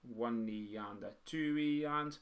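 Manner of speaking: slow, measured beat counting; counting out rhythm. Shown as a demonstration. Teacher showing drummers how to count written music, counting out rhythm. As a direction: count the subdivisions slowly and evenly. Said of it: "being able to count it".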